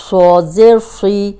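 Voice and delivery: سی said with a heavy, thick s; heavy saad. Shown as a demonstration. Teacher to students, a heavy سی. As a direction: give صاد weight in سی. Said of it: "تینوں میں فرق ہے".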